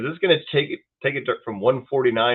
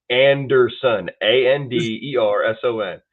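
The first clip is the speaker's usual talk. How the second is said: slow, deliberate letter-by-letter spelling; patient but pointed spelling of the surname; spelled out slowly; 4 dB louder, slower than usual. Retold or imitated. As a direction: spell it out like she's hard of hearing. Spelling name for clerk.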